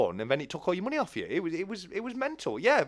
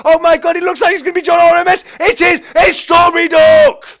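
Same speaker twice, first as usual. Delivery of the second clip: rising excitement, higher and louder each line until a full shout on the finish; building to a shout; 6 semitones higher, 13 dB louder than usual. Real, not acted. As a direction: start thrilled and climb to screaming the winner's name. Race finish, commentator erupts.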